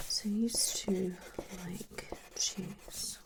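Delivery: halting, trailing off softly; mildly hushed, as if jotting it down; note-taking murmur. Acted. Therapist noting down answers aloud.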